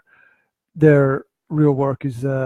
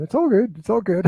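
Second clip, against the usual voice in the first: put-on American accent; 6 semitones higher than usual. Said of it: "you're sitting there going".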